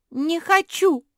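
high, loud scream of refusal; a desperate cry. A narrator's reading. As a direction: shriek it like a terrified child. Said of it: "закричала Жози".

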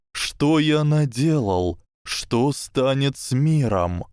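slow, trembling despair; shaky and slow, near tears; tragic heroine sorrow. Acted. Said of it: "дрожащим голосом сказал".

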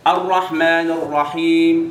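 drawn-out Quran recitation, stretching each vowel; teacher reciting slowly for the class. Shown as a demonstration. Teacher reciting slowly to students. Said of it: "بنقول ايه؟".

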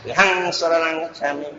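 "Gà hăng" blended into aspirated ghang; quick Pali blend. Shown as a demonstration. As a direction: softly recite "Gà hăng Sa Năng Cách Sa Ní", sounding the h. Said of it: "Gà há đọc nhanh á".

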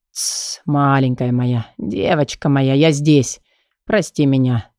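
put-on calm her like a frightened child; tender hush. Кай утешает плачущую Лею, нежно и тихо. Kai soothes the crying girl.

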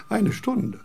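scornful exclamation. Acted. Kant scoffs at an hour's wait.

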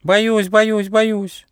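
high, trembling-free fearful pleading; frightened whimper. Acted. Scared character pleading with the gnome, high and fearful. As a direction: beg off, scared to go.

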